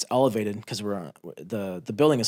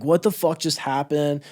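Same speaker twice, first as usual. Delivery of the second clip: dazed disbelief; 5 semitones higher, 5 dB louder, slower than usual. Retold or imitated. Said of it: "crying and laughing".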